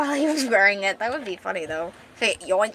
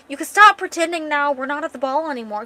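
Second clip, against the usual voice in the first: flustered loud; 6 semitones higher, 7 dB louder than usual. Acted. Flustered, raising voice.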